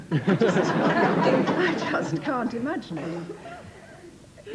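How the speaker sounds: laughing through the words, slowly; can't get the words out for laughing; helpless giggling disbelief. Real, not acted. Laughing at the made-up word.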